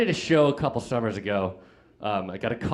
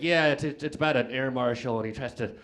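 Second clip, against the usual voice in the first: building shout; 8 dB louder than usual. Pretend. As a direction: build into a wild yell. Mock describing movie, yelling.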